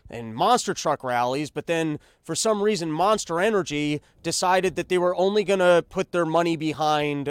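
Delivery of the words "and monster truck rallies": put-on nostalgic old parent. Parent telling kids about the old days, lightly voiced old-timer. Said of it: "you're gonna be talking to your kids".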